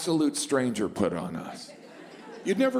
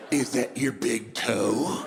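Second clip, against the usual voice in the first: creepy salesman; 3 semitones lower, slower than usual. Pretend.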